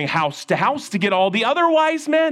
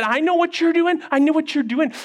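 angry king; 8 semitones higher than usual. Acted. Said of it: "Then he got really mad".

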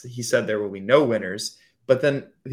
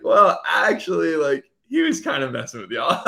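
a hint of a calm correspondent; 5 semitones higher, 4 dB louder than usual. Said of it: "he's like".

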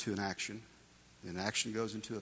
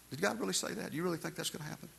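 a much higher, taunting tempter asking sneering questions; mocking enemy voice; 8 semitones higher, 4 dB quieter, faster than usual. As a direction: sow doubt with a sly, needling sneer. Preacher voicing the enemy's mocking doubt.

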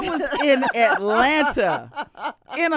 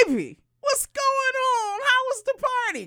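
put-on higher, sweet greeting to his girl; boyfriend voice; 9 semitones higher than usual. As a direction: call out sweetly to your baby. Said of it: "My friend rolls up".

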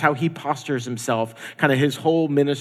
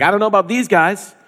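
higher, louder dig at the others; mock boast, pitched up and loud; dismissive Peter; 6 semitones higher, 7 dB louder than usual. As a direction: imitate someone dismissing his friends out loud. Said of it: "Peter even kind of dimes out".

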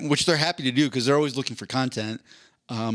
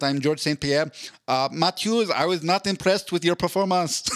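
mild imitated Canadian accent, a little higher; 5 semitones higher than usual. George calling out Matt Hughes in the octagon, mild Canadian accent. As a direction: lightly do George's polite Canadian voice. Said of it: "in his Canadian accent".

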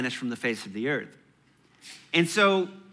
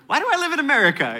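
laughing self-question; 10 semitones higher, 4 dB louder, much faster than usual. Retold or imitated. Retelling his own morning thoughts.

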